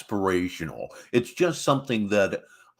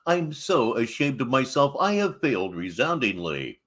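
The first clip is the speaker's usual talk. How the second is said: sarcastic; 3 semitones higher than usual. Acted. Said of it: "That was sarcasm".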